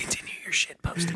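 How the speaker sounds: joking whispered aside. Pretend. Cohost joins the whispered subliminal bit. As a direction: whisper it like a hidden message. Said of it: "Is this subliminal messaging?".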